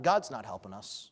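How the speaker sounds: a low, soft blaming aside; blaming God. Acted. King blames God under his breath, low bitter grumble. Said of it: "he blames God".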